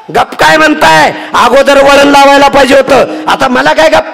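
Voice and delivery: high, loud wailing complaint to the mother-in-law; wailing daughter-in-law. Acted. A young wife wails to her mother-in-law about betrayal, high and loud. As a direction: cry out the whole list of grievances, high and loud.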